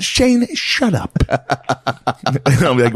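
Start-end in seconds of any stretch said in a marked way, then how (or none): 0.0-1.1 high, slow mock dad voice; dad telling his son off in a put-on voice; imitating dad. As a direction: drag out the dad's brush-off. Voicing dad dismissing son.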